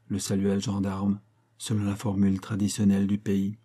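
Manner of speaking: ordinary delivery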